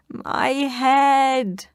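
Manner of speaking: high loud yelp; yelp of pain. Acted. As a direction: howl as the basket hits you. Wolf yelps.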